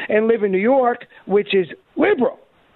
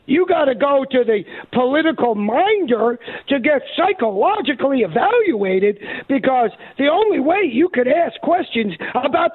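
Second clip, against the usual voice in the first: higher, sneering voice of the panel, slowing on the last words; mocking the leftists; 6 semitones higher than usual. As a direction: lightly sneer it as a condescending official.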